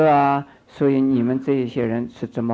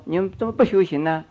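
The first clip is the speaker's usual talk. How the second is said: brisk scolding; 5 semitones higher, faster than usual. Retold or imitated. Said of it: "我只是说".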